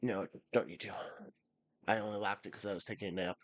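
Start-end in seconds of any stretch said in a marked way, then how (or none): 0.0-0.9 hushed whisper to someone nearby. Real, not acted. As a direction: whisper the reply. Answering someone in the room.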